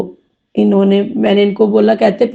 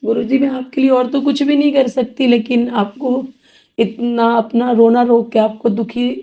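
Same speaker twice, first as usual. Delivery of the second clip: tearful. Real, not acted. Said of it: "नहीं, मैं रो नहीं रही हूँ".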